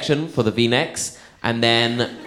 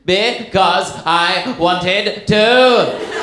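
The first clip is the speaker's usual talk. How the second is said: put-on very slow, higher whiny kid; mock whining child; sulky little boy; 7 semitones higher, 4 dB louder, much slower than usual. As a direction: drag it out like a stubborn small boy. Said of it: "the little boy looked at his mum and went".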